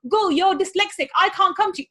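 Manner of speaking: money as a character refusing you, hammed up; mock refusing money. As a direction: play money saying no in a silly voice. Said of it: "It doesn't say".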